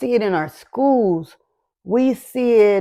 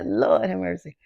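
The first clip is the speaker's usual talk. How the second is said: composing herself; 6 dB quieter than usual. Real, not acted. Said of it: "give me a minute".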